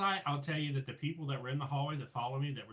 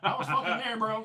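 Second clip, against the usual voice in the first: high, loud laugh through the words; real laughter breaking in; 8 semitones higher, 10 dB louder than usual. Real, not acted. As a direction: laugh it out, much louder and higher.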